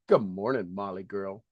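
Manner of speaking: low, soft greeting to a pet; tender hello to a pet; cooing to the dog. Real, not acted. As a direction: coo a good-morning to your dog. Greeting the dog mid-talk.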